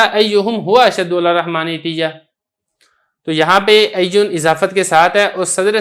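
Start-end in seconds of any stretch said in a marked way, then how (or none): 0.0-2.1 हुआ spoken between अय्युहुम and अशद्दु; restored full form. Shown as a demonstration. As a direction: put the hidden हुआ back after अय्युहुम. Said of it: "असल में क्या था". (अय्युहुम के बाद हुआ जोड़कर पढ़ना)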